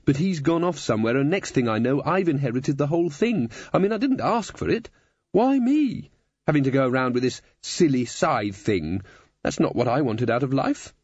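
put-on complaining young Susan, rising to a high plaint; aggrieved teenage girl. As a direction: protest the unfairness of it all. Voices Susan complaining in the story.

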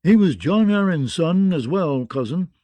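pointed correction of a cousin; frowning objection. Acted. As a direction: push back hard at a relative. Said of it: "frowning at the keeper".

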